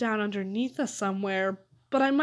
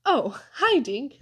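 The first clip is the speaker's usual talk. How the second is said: put-on high, smiling child's hello; cheery little-boy greeting; all smiles; 4 semitones higher, 4 dB louder, slower than usual. A narrator's reading. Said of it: "all smiles".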